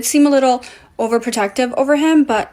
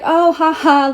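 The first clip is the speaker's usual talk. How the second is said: fake laugh; 5 semitones higher, slower than usual. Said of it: "like, laughing it off".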